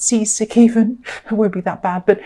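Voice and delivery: gently amused, a small laugh midway; light chuckle. Real, not acted. Tarot reader joking to a heartsick listener, chuckling. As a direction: chuckle lightly through the words. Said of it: "I shouldn't laugh".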